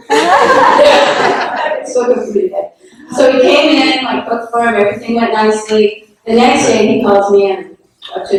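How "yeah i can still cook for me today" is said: laughing reply. Real, not acted. Retold reply through laughter.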